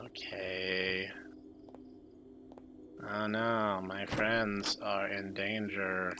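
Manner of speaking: breathy unvoiced whisper. Real, not acted. Tense moment, gunshot nearby.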